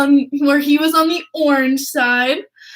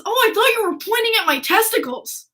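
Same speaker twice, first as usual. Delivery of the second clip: quoting through laughter; 7 semitones higher than usual. Retold or imitated. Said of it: "And Clutterbuck goes".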